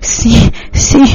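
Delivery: urgent cries, little added volume; understated crying out; mild acted cry. A narrator's reading. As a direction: call out urgently, held back. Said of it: "hace que ella grite".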